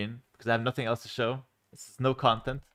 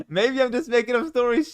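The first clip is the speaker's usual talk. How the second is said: much higher, louder teasing tone after a laugh; playful high voice; 11 semitones higher, 5 dB louder than usual. Pretend. Streamer jokes to chat about inventing stories, playful high voice. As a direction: tease them in a raised, silly pitch.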